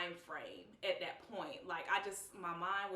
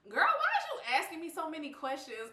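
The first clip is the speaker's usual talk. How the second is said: suspicious; 8 semitones higher, 7 dB louder, faster than usual. Retold or imitated. Suspicious reply to cousin.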